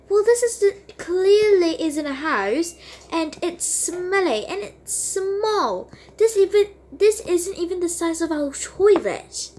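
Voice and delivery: high scornful complaining mom; disgusted mom. Acted. Mom sneering at the friend's little house. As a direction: turn your nose up at the place.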